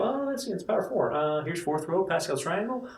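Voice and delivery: high nerdy voice; geeky excited muttering; nerd voice. Retold or imitated. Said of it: "I sound like a nerd right now".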